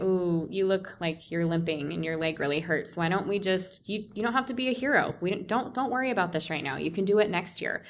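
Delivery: soft, lightly imitated concern; imitated soothing supporter; mock-sympathetic coaxing. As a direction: gently talk someone out of it, as in a retelling. Supporters coax her to give up.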